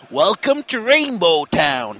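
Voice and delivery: slow, lightly voiced cuddly bear villain; a hint of the Lotso bear, drawn out; Lotso impression. Host to co-host, showing off his Lotso impression. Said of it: "I do the best Lotso impression".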